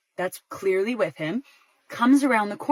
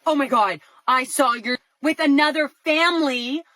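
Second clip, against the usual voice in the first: mock overexcited accusation; coming in hot; 4 semitones higher, 3 dB louder than usual. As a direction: imitate someone blurting out an accusation. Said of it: "don't come in hot and just be like".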